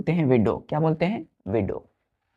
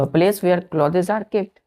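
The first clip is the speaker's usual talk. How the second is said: slow dictation; much slower than usual. Shown as a demonstration. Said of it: "clear बच्चों?".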